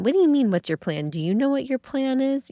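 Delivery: a grandmother scoffing in disbelief; indignant grandma. Retold or imitated. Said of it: "the grandma chimes in".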